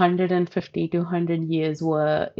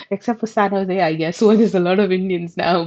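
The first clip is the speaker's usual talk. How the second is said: laughing; 3 dB louder than usual. Real, not acted. Laughing at her own stereotype.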